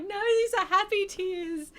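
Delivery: emotional reassurance. Retold or imitated. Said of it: "And I was like".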